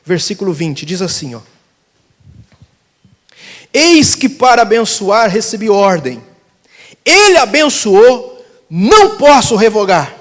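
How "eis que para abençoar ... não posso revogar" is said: slow, forceful preacher reading; declaimed scripture. Real, not acted. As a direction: proclaim each phrase with weight. Declaims Bible verse to congregation.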